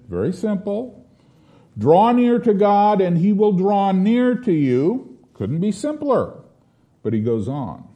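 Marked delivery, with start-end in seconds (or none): 1.8-5.2 raised, emphatic scripture reading; high, ringing exhortation; prophetic authority. Acted. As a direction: proclaim it with authority. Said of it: "he says it with prophetic authority".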